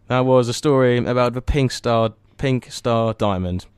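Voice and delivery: back-announce like a radio host; radio presenter voice. Acted. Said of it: "Just let me get my radio voice on".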